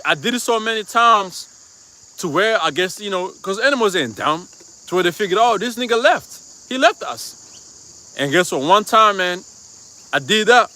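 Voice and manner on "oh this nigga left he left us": lightly voiced goats realizing they're left alone; voicing the goats. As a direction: goats fretting in a slow, higher voice. Goats' imagined thoughts voiced.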